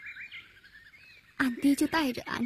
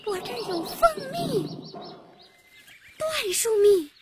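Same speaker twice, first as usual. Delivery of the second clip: high, careful coaxing voice; placating, pitched high; 5 semitones higher, 5 dB quieter than usual. Acted. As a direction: gently lure an angry bear over. Coaxing a bear with honey.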